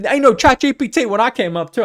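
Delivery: high, loud mock old-timer voice; old wizard voice. Old wizard griping to young coders, hammed-up old-timer voice. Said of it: "I sound like an old goddamn wizard".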